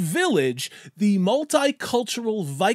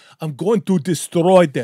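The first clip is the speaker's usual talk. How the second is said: loud bad-guy Eastern European villain accent; 3 semitones lower, 6 dB louder than usual. Mocking a stock bad guy's threat, in an Eastern European villain accent. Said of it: "with that Eastern European accent saying".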